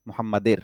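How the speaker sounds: মুহাম্মাদের said with e instead of ur; the common mistake মুহাম্মাদের; wrong ending. Shown as a demonstration. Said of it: "ভুল করে অনেকে". (ভুল উচ্চারণ মুহাম্মাদের)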